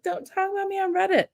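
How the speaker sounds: high whining plea; mock whiny plea. A pretend whining plea to Reddit critics, pitched high. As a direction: whine it like a thin-skinned creator. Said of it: "I'm not gonna be like".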